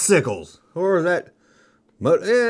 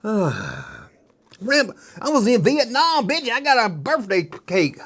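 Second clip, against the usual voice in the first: higher mock tough-guy line; hammed-up Rambo; 6 semitones higher, slower than usual. Kid in a Rambo hat bragging, mock tough guy, higher. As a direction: fake a tough Rambo boast. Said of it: "Got your little Rambo hat".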